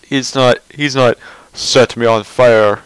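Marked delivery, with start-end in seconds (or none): 1.5-2.8 slow, lower mock villain line; a voice he can't go down to; lightly voiced deep villain; too low a voice. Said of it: "Oh no, that's, that's not true".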